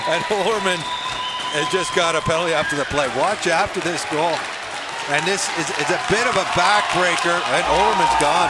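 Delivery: building to a loud call; heated live call; excited commentary. Real, not acted. Excited play-by-play.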